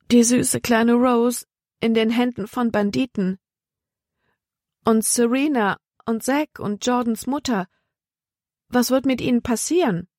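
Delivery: anxious fretting. A narrator's reading. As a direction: voice distress for those in danger. Libby frets for captured friends.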